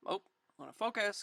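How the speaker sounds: usual speaking voice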